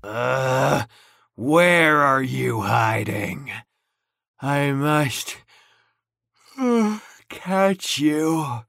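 drowsy dinosaur. Acted. Dinosaur hunting the hidden prince while dozing off, sleepy and low. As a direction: drift off mid-threat.

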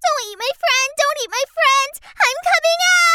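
urgent, pleading shout; yelling. Acted. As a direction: cry out to save him. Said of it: "Reddy Hood yelled as she ran".

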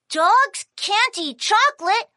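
a touch of surprise; puzzled question. Acted. Kiki just told by Puppy, puzzled questioning. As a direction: ask it as news to you.

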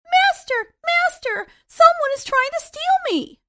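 very high, loud panicked squeal; squealing harp. Acted. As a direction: shriek for the master in alarm. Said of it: "the harp squealed".

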